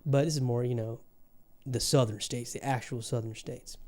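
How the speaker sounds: accent of the Southern states. Real, not acted. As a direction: explain it in a light Southern accent. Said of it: "this is not the Texan accent".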